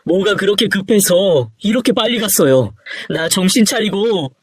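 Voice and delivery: distraught, high-pitched reproach; anguished regret, pitch climbing; grieving lament. Acted. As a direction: mourn a father gone too soon. Son laments to dead father.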